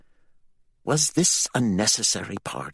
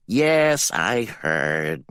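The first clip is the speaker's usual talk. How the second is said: Malingo's voice; 2 semitones higher, 5 dB louder, much slower than usual. A narrator's reading. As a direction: answer from the shadows, pitched up. Malingo emerges from shadows.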